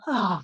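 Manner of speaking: quiet sighing ah; gentle contented sigh; soft release sigh. Shown as a demonstration. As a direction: exhale softly like a cat settling. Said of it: "And then they go".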